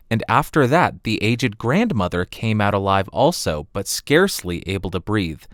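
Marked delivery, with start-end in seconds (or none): none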